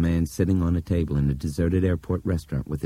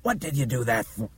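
high, baffled protest; raised-pitch bewilderment; bewildered; 8 semitones higher than usual. A narrator's reading. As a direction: ask it in shocked confusion.

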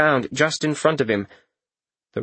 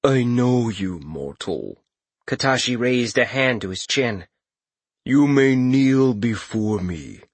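booming Katashi voice; slower than usual. Acted. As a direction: speak down to a mortal, slowly. Katashi the visage speaks.

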